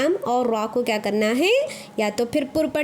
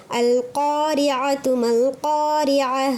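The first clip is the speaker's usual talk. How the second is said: slow, drawn-out chanted recitation; Quranic recitation; much slower than usual. Shown as a demonstration. Teacher reciting a Quran verse for her students, slow and chanted. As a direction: recite it melodically, stretching the vowels. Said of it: "کس طرح سے پڑھنا ہے؟".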